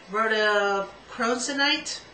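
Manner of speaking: "rhodochrosonite" slow and halting, with an extra "n"; slow, stumbling attempt at "rhodochrosonite"; botched rhodochrosonite. Real, not acted. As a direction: sound out "rhodochrosonite" hesitantly, ending in "-sonite". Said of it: "we know I messed that up".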